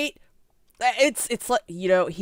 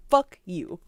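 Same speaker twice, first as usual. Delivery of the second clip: mock prosecutor fuck you. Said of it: "something about that is really funny".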